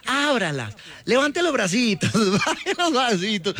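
slow, singsong commands like a doctor; mimicking doctor. Imitating the doctor's instructions.

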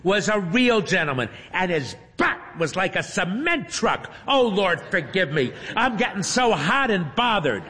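put-on giddy elderly woman confessing; a touch of flustered old lady.

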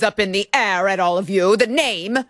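lightly put-on British accent, nose in the air; a hint of a haughty British accent; mock British accent. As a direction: read it like a snooty British official. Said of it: "why he turned into a British person".

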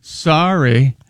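slow fake sorry; insincere apology. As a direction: drag out a phony apology. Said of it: "she did one of these".

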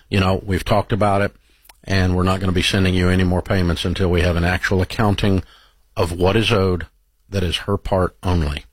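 measured, low-pitched, matter-of-fact refusal; calm. Acted. Adviser scripting a caller's reply to a pushy lender, very calm. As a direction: say it very calmly, pitched low and even. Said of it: "just very calmly just say".

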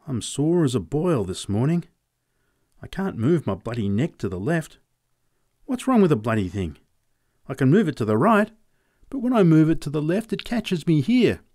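lightly voiced farmer, grumbling, quickening; sore old farmer. Farmer complaining to the boy about his sore neck, lightly voiced grumble.

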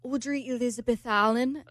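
put-on amateur British accent with questioning lift. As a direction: repeat the name like a British man. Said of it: "You have a terrible British accent".

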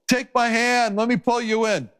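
high, urgent plea from a lifeboat; pleading rescuer. Pretend. Rescuer in a lifeboat begging a drowning man, high urgent plea. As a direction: reach out and beg them to take hold.

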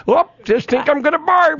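put-on very high Fargo accent movie quote. Sportscaster quotes the movie for co-hosts, high Fargo accent. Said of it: "you gotta talk in that accent".

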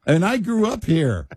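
high, protesting Texas twang. Shown as a demonstration. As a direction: protest your local roots with a Texas twang. Protesting in put-on local accent.

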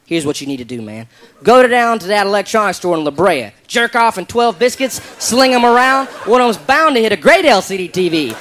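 put-on Southern redneck accent, colorful and folksy; redneck drawl. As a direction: talk like a good ol' Southern redneck. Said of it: "I like the way this guy talks".

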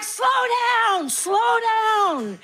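high, slow yelled slow down; calling after kids. Retold or imitated. Mom shouting slow down after running toddlers.

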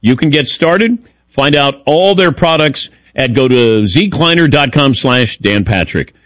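upbeat sponsor read. Acted. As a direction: sell it like a radio spot. Reads a sponsor ad.

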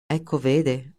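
"Ecco, vede" thrown back in a mocking echo, stress on "ecco"; mock the other man's stalling words; sarcastic mimicry. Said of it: "sbottò Linder sarcastico". (ripetizione sarcastica di "Ecco, vede", accento su "ecco")

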